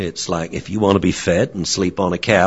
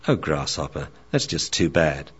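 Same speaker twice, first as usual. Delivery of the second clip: lower, softer consoling sage; wise old dog, sympathetic; 4 semitones lower, 6 dB quieter than usual. Acted. Theo consoles the young dog, lower and softer. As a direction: sigh it out like a gentle old master. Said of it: "Theo the Akita".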